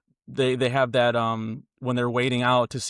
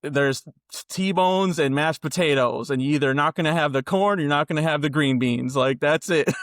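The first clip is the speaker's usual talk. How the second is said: put-on sassy old lady; 3 semitones higher, 3 dB louder than usual. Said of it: "this sassy old lady".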